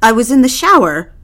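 defensive. Acted. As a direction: daughter scrambling to cover. Daughter defends her lie.

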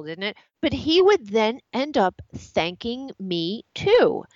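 ordinary talk, nothing marked

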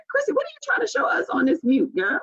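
high, teasing call across the room; playful call-out. Real, not acted. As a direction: call her out on the mute, amused. Calling out co-host's mute.

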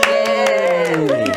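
very high drawn-out "yay"; squealed, stretched cheer; crowd cheer. Acted. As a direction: imitate a delighted audience.

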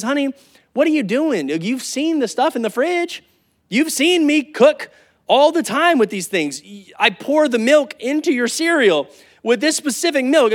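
a hint of the patient wife laying out the obvious. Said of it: "she looks at you and says".

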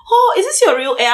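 high-pitched imitated astonishment; mock amazement. Workmates seeing her new braids, mock amazed. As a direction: gush it high, like an amazed coworker.

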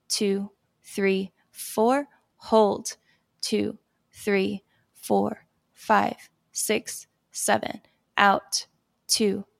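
calm, slow breathing count; walk them gently through the count; guided calming breath. Shown as a demonstration. Coach leading the host through a calming breath, slow count.

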